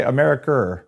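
shaky grasp of an Australian accent; hesitant mock Australian accent; attempted Australian accent. Shown as a demonstration. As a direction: have a go at Australian-accented "America". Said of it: "I don't think I quite have the".

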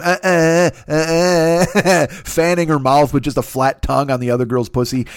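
open-mouthed "uh, uh" like a burnt tongue; tongue-out mock panting sounds; mimed spicy-food reaction. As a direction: imitate a child panting over hot food. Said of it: "A child who had spicy food for the first time".

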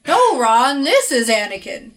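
lightly imitated cartoon interjection; half-hearted cartoon voice through laughter; weird cartoon voice. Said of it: "cartoon voice would be like".

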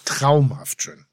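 traumhaft drawn out slowly, each syllable savored; slow savoring. Shown as a demonstration. Host relishing the boat varnish, said slowly. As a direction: Traumhaft schön, said slowly as if tasting it. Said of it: "Sag noch mal".

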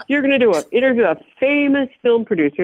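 lightly hammed-up condescending sales pitch; retold condescension. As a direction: talk down to her while imitating the auditioners. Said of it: "pretty condescending in the audition".

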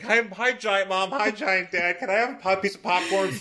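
a hint of a small child piping up; lightly voiced little kid. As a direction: play a tiny, eager kid. Voices tiny Bruce greeting giant parents.

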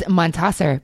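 Montasser said the German way, MON-tah-ser with a full open a; German pronunciation. Shown as a demonstration. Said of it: "because I was a German minor".

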